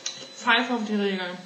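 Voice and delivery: talking with a mouth full. Real, not acted. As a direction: speak while chewing food. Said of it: "man redet nicht mit vollem Mund, aber ich tu's jetzt".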